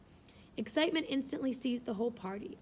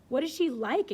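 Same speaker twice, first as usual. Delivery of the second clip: in a breath; 5 semitones higher, 6 dB louder than usual. A narrator's reading. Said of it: "inquired Miss Eshton in a breath".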